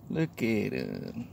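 slow, soft "Look at him" stretched out; soft admiring. Real, not acted. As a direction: linger fondly over "Look". Admiring the bird quietly.

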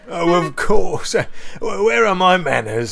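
high, loud, flustered politeness; mock courteous. A narrator's reading. Bear remembering to greet Percy, flustered courtesy. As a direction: stumble into an apology for forgetting. Bear realises, introduces himself.

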